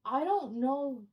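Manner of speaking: slow, halting mock helplessness; helpless reply. Baffled trainee to angry caller, slow and helpless. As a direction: draw it out word by word. Retold flustered trainee replies.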